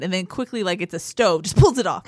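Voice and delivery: ordinary talk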